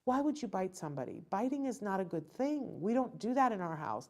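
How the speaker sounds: lightly voiced soothing mom on her lap; gentle parent. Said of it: "put him on my lap and said".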